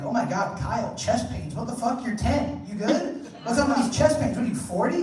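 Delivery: mock incredulous kid. Child's incredulous thought.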